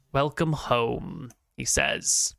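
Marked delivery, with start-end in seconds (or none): 0.1-1.3 greedy welcome. Acted. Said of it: "with a not quite sinister, but, like, a greedy".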